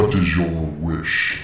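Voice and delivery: genie. Acted. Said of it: "summons the genie of gaming".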